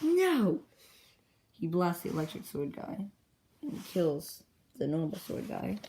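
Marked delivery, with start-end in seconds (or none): 0.0-0.6 high, loud swooping cry; dramatic shouted no. Acted. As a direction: cry out in mock desperation. Acted protest in retold battle.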